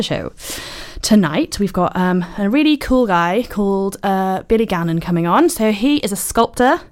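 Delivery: out of breath after running downstairs. Real, not acted. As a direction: talk while still out of breath. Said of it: "Sorry, I'm out of breath. I ran downstairs".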